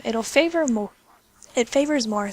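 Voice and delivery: talking through hiccups; words broken by a hiccup. Real, not acted. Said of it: "sorry, I have hiccups".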